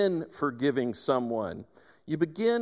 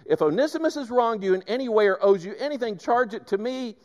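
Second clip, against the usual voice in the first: imagined Paul, hurried; 5 semitones higher than usual. Retold or imitated. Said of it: "I just picture him saying".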